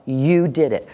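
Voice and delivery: "You" emphasized, then falling away; stress on YOU. Shown as a demonstration. Teacher putting the emphasis on the child, stress on "You". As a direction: lean on "You". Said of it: "put the emphasis on the child".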